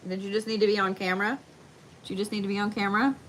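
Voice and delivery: quick, soft teasing coo; affectionate pet-talk tease; playful teasing. Real, not acted. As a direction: tease the dog fondly. Teasing the dog lovingly.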